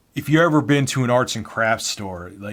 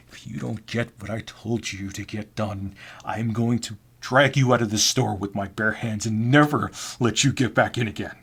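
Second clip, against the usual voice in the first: angry coworker's threat. Acted. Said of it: "Bob was a very angry guy".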